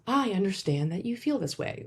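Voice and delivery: cold, detached and flat; deadpan robotic reply. Shown as a demonstration. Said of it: "it sounds robotic".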